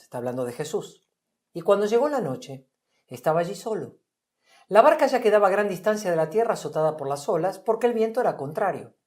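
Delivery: measured Bible passage read aloud; scripture reading. A narrator's reading. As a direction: read the story as scripture to the group. Reads Mateo 14 aloud.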